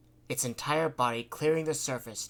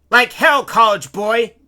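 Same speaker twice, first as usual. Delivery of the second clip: high, loud scornful shout; angry yell; 10 semitones higher, 19 dB louder, slower than usual. A narrator's reading. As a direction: yell him down. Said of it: "he yelled".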